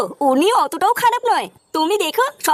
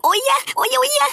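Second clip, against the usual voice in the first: imitating moans; 4 semitones higher than usual. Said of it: "phone থেকে আওয়াজ আসছিল".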